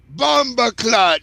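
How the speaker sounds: slow, drawn-out Caribbean curse; Caribbean accent. Acted. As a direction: stretch it out in Caribbean patois. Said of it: "older Caribbean women".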